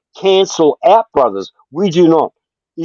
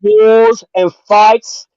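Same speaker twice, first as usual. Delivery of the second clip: angry rant; 5 semitones higher than usual. Real, not acted. Heated insult fight on stream.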